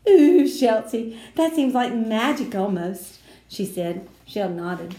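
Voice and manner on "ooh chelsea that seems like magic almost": slow, high, loud awed ooh. A narrator's reading. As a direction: shiver with wonder as you say it. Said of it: "Lucille did a shiver".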